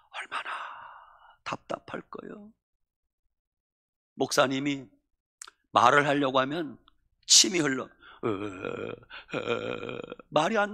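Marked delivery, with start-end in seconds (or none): 0.1-2.5 hushed sympathy. Real, not acted. Pastor pitying the stricken minister. 7.8-10.0 slow, faint, halting "어, 어" of a man who cannot speak; drawn-out weak stammer, barely voiced; stroke patient straining. Imitating stroke victim's failed speech.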